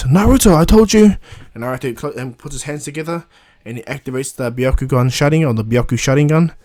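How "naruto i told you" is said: scolding mentor. Retold or imitated. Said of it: "And he goes".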